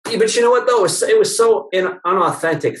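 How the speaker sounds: excited protest. Real, not acted. Speaker bursting in on the host, excited. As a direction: jump in eagerly.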